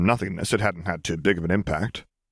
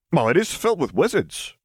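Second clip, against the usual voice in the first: higher, dry shrug; offhand Frank; 8 semitones higher than usual. Acted. Secretary shrugging to Lily, dry and raised. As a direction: toss it off.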